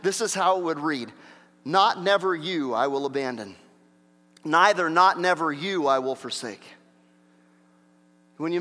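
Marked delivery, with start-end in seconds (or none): 1.6-6.6 "never you" hammered out, then a measured finish; emphatic literal reading. Shown as a demonstration. Preacher reading the Greek double negative literally, emphatic. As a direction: read "Not never you" with firm, separate stresses. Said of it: "this is for emphasis' sake".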